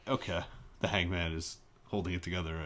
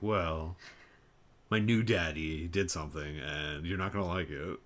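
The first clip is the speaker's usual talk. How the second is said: mock coy; 5 semitones lower than usual. Co-host imitating the queen dodging the truth, coy. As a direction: coyly hold back the bad news, mockingly. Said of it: "this sounded like some coy bullshit".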